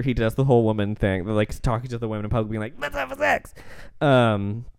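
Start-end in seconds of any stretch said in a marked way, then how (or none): 2.8-3.5 high mock-seductive come-on, much higher; lightly voiced sleazy husband; mock pickup line. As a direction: toss it off like a cheesy seducer. Husband propositions women in public.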